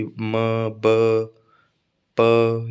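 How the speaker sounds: "म, ब, प" slow, each separate with lips closing; isolated consonant sounds. Shown as a demonstration. Teacher showing airflow blockage, isolated consonant sounds. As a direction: sound out "म, ब, प", blocked then released. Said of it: "ये कुछ भी बोलोगे तो बाधा आएगी".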